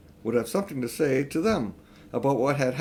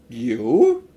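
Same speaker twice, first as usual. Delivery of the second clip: sharp, louder menacing queen; terrible; 8 dB louder than usual. A narrator's reading. Queen snaps at Uncle Andrew, menacing. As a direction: spit it out like a furious queen. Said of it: "in a still more terrible voice".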